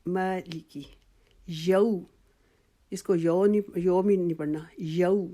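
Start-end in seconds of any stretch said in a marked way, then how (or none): 0.1-0.8 مالکی said whole, ما long and لیکی quick; joined recitation. Shown as a demonstration. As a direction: blend both parts of مالکی smoothly. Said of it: "دونوں کو ملا لیں".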